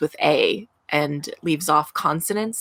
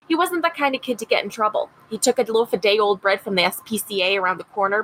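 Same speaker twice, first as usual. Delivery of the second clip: put-on a light Rochester, upstate New York accent for Mary; mother remembering her son, a hint of a Rochester accent. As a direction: read it gently as Mary Blake in a mild Rochester accent. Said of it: "read this in her Rochester accent".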